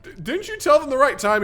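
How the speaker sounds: high, accusing cartoon voice; questioning voice. Someone questioning Noah, high accusing voice. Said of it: "He goes".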